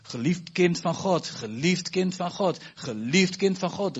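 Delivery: slow, tender repetition; tender blessing. Real, not acted. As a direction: bless them gently, word by word. Blessing the congregation.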